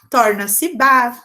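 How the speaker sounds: slow, clear ba for the class; slow demo. Shown as a demonstration. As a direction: spell out torna-se ba slowly for the children. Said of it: "se eu apago I e escrevo A".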